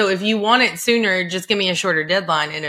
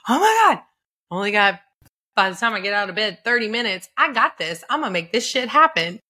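panicked then determined; 3 semitones higher, faster than usual. Retold or imitated. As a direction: jolt awake, then rally yourself. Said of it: "I was like".

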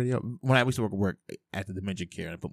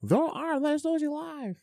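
much higher-pitched mock character voice; Toy Story bit. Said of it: "like Buzz Lightyear from Toy Story".

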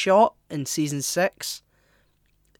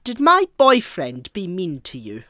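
put-on English accent; 3 semitones higher, 6 dB louder than usual. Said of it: "going to go into an English accent".

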